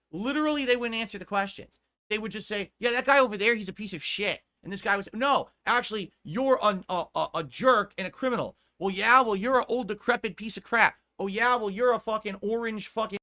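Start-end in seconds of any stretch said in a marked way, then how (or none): 2.8-4.4 loud, raised mock accusation; mock bickering. Acted debate yelling match. 5.1-13.2 loud, high back-and-forth squabble; mock yelling match. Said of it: "just yelling at each other".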